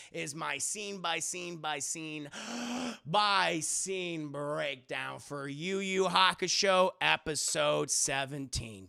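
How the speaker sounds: slow, drawn-out, grand announcement; announcer sign-off. Real, not acted. Streamer closing an episode breakdown for chat, slow ceremonial announcing. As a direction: stretch each phrase for mock grandeur.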